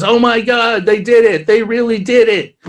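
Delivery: high, amazed gasp of discovery; character realizing the planet was Earth all along, high and amazed; stunned realization. Retold or imitated. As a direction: voice jumps up in shock as it dawns on him. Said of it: "and he goes".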